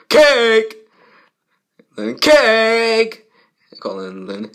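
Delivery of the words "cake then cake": excited cake cry. Acted. Characters excited about cake.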